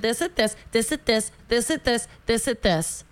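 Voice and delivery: quick, singsong run-through of a list; rattled-off list. Retold or imitated. Vet tech running through the priced items, rattled off. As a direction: rattle it off in identical little bursts.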